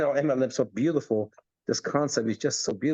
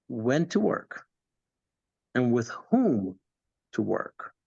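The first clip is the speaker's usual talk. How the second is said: calm mentor. Retold or imitated. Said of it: "says calmly".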